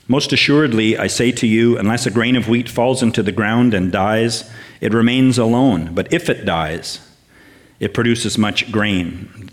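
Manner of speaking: solemn, emphatic Bible reading, slowing on key phrases; scripture reading. Acted. Preacher reading John twelve to the church, solemn proclamation. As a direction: proclaim the verses from John twelve, deliberate and weighty.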